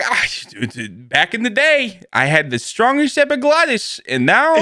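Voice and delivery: hint of a war veteran's lament; put-on general recalling past glory; cartoon army general. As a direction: reminisce like an animated old soldier. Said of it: "that's how I'd be".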